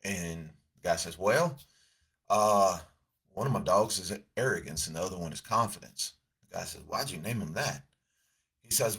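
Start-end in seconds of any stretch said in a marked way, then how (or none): 1.2-6.1 put-on storyteller's light Southern US accent. Dog owner explains his two dogs, Southern accent. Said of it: "Southern accent out here". 6.8-7.9 put-on Southern accent. Stranger questions the dogs' names, Southern accent. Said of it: "Southern accent out here".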